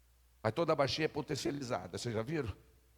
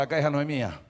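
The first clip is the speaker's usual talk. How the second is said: louder call; 6 dB louder, faster than usual. Shown as a demonstration. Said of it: "Fala mais alto".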